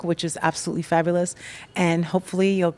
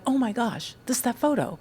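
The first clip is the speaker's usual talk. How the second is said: excited fan; 5 semitones higher, 3 dB quieter than usual. Pretend. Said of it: "you will be like".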